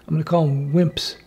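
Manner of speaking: a sly whispered put-down; conspiratorial whisper; whispered jab. Real, not acted. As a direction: whisper the insult as an aside. Whispered insult aside.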